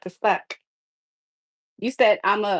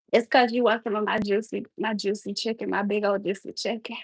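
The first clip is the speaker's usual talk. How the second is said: fake sexy voice. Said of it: "my fake cooking sexy voice".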